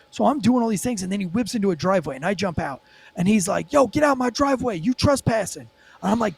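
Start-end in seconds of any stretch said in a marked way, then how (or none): 3.7-5.7 high-pitched mock protest; imitated indignant driver. Driver ordering cop off his driveway, mimicked indignation.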